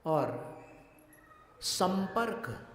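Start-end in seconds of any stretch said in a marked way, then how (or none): 1.6-2.7 संपर्क with the anusvara as म, slow; संपर्क drawn out, म-like; nasal m demo. Shown as a demonstration. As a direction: say संपर्क slowly, closing lips to म. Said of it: "म".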